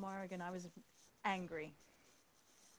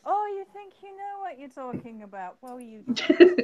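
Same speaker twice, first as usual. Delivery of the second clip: mocking dark god; 5 semitones higher, 13 dB louder than usual. Dark god scoffing at a mortal who thinks they know best. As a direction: taunt them like a scornful god.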